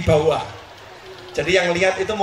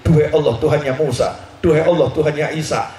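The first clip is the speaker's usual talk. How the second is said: imitated prayer; 6 semitones lower, 3 dB louder than usual. The Prophet mimics Aisyah's sulky prayer, lower and louder. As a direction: lower and louder, solemn invocation. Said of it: "doamu bunyinya seperti ini".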